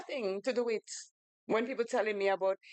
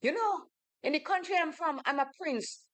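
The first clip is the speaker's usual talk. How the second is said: higher, lightly voiced mock of a bragging man; boastful suitor; 6 semitones higher than usual. Retelling the street pickup, she mimics the man higher and boastful. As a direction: puff up like a self-styled prince, pitched higher. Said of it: "Then he's like".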